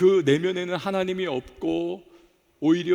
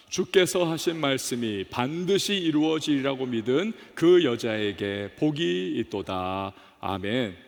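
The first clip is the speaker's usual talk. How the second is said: measured congregational Bible reading, sinking lower toward the close; scripture read-aloud; 4 semitones lower, slower than usual. Real, not acted. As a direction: lead the congregation in reading a verse, drawing out the ending. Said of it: "같이 한번 읽어봅니다. 시작". (회중과 함께 성경 봉독하듯, 끝을 낮고 길게)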